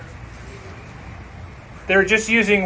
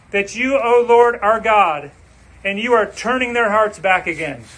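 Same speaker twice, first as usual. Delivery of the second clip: fervent prayer; 3 semitones higher than usual. Acted. Preacher voices Elijah's prayer.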